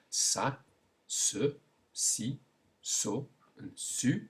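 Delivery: sa, se, si, so, su as separate French syllables with a hissed s; s sound drill. Shown as a demonstration. Teacher shows the s with five vowels, s sound drill. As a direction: sound out sa, se, si, so, su one by one. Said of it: "moving on now to the s sound".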